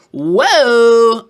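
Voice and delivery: loud, high startled whoa; surprised whoa. Real, not acted. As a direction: gasp out a stunned whoa. Reacting to fat camp price.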